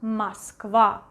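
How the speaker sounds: "Москва" said mas-KVA; "Москва" with stress on final KVA; unstressed O as A. Shown as a demonstration. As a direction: model "Москва" with A in both syllables. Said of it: "this O is pronounced as A".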